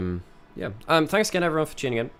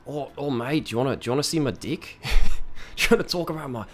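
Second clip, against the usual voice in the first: mock Aussie gamer; 4 semitones higher than usual. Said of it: "like, Aussie".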